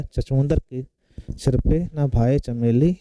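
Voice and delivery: proverb repeated slowly for students; slow down and spell out चमेली. Shown as a demonstration. Teacher repeats the proverb for the class, slowly. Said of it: "क्या कहलाएगा?".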